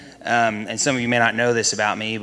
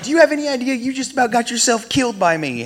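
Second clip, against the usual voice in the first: higher and louder, still yelling; retold yell; 14 semitones higher, 4 dB louder than usual. Man still yelling at the pinned intruder, loud. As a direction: keep yelling it down at him. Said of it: "I was screaming at him".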